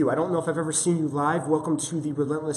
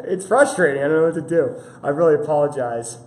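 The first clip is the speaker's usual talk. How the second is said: frustrated, put-on London accent; louder, raised mock London accent; 7 dB louder than usual. Streamer apologizing to viewers for glitches, London accent. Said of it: "I try to speak in a London accent".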